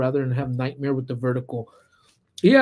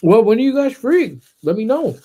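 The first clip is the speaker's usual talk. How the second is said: imitating boyfriend; 8 semitones higher, 5 dB louder than usual. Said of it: "my boyfriend was like".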